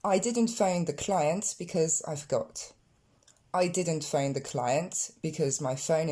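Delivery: slow, careful example reading; slow model sentences. Shown as a demonstration. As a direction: read each example slowly for learners. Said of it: "Ici, sous les yeux".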